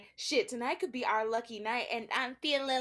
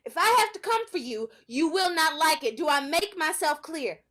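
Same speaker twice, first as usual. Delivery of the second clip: stern warning; 4 dB louder than usual. Acted. Mother threatens daughter.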